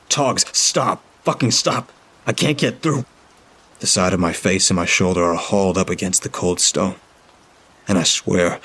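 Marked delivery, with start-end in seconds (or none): 0.1-3.1 raised, desperate pleading; urgent shout. A narrator's reading. Narrator yelling at Toggs through the curtain. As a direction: yell at him to stop.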